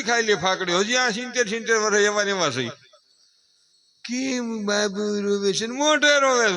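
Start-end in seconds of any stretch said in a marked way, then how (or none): 4.0-6.6 mock the fussing relatives; mocking doting family. Speaker mocking the family over a crying baby, slow whine.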